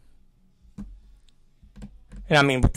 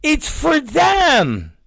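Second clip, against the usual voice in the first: put-on higher, slow patient kid explaining; mock child voice, earnest; kid's voice; 4 semitones higher, much slower than usual. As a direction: explain slowly like a child lecturing dad. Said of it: "I said".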